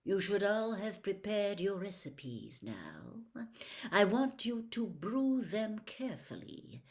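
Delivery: a cold potions master toying with the class. Acted. Snape voiced by narrator.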